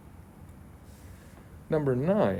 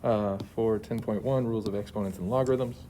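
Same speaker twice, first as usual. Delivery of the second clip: talking through a face mask; muffled voice behind a mask. Real, not acted. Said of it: "sorry if my voice is a little muffled".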